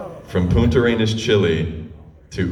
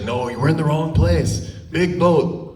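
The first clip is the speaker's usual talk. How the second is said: high, pleading mock voice for the boat staff; imitating her pleading; 11 semitones higher than usual. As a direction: she begs them, voice pitched way up. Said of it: "pleading with this guy".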